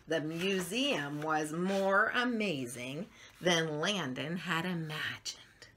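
slow, gentle storybook reading; lively picture-book narration; reading to children. A narrator's reading. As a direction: read it like bedtime story time for little ones.

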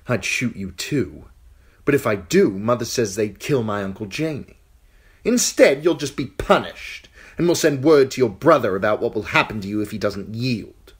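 put-on high, sneering young king; cruel boy king. King taunting the captive girl, high and sneering. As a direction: gloat down at her, spoiled and cruel.

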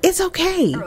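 softly placating; lightly acted peacemaker easing things over; retold soothing. Daughter trying to ease the argument over, mildly placating. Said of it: "trying to ease it over".

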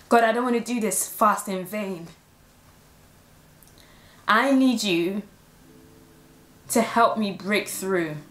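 tearful, halting prayer to God; emotional prayer. Retold or imitated. Retelling her prayer to God while getting emotional, tearful. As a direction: pray it with tears close. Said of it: "getting emotional".

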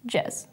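"jez" said as a syllable on its own; isolated second syllable. Shown as a demonstration. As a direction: say just "jez", a separate unstressed word ending. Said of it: "and then the second syllable".

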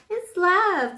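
high, loud, thrilled announcement; excited reveal. Real, not acted. Reveals the card.

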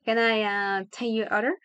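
drawn "uh" before finishing; slightly unsure waiter asking; a bit hesitant. Shown as a demonstration. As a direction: falter briefly mid-question. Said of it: "como que un poco dudando".

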